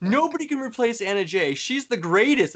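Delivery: high, mock-distraught lament; John Silver lamenting. Imitating a wrestler missing his teammate, high-pitched lament. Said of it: "And he's just like".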